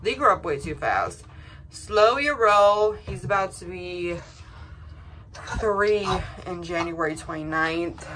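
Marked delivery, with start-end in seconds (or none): 1.7-2.9 drawn-out, louder mock scolding; slow and sassy, scolding time itself; slow your roll. Real, not acted. Mom scolding time for moving too fast.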